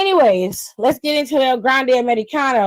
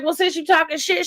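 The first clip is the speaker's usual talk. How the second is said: higher, sassy taunting quote; mock Nikki Bella; 5 semitones higher than usual. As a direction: toss it off like a challenge, pitched up. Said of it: "Nikki Bella was like".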